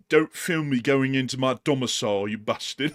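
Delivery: mock-indignant British marmot. Marmot scolding whoever films it, indignant British accent. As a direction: grumble in a put-on British accent. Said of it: "all of our marmots are British".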